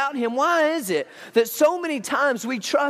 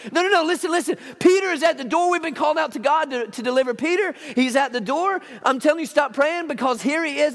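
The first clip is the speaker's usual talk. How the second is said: high, urgent insisting; insistent excitement; 5 semitones higher than usual. Retold or imitated. Rhoda insisting to skeptics, urgent. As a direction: make them listen. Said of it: "Rhoda insisting".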